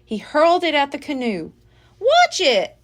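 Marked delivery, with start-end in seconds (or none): 2.0-2.8 loud, higher warning shout; boy shouting at the monkey. A narrator's reading. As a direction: bark a warning as fruit flies. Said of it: "shouted Jack".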